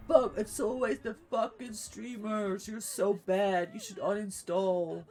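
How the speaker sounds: lightly voiced annoyed player ranting; mock angry teammate. Streamer imagining teammate's endgame rant, mildly mocking. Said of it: "He's gonna yell at me".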